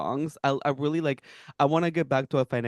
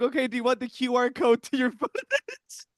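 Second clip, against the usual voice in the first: mock booth attendant; 9 semitones higher than usual. Acts out photo booth style offer.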